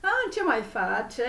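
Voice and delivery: put-on Romanian accent. Tarot coach slipping back into a Romanian accent. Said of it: "reprendre un petit peu mon accent roumain".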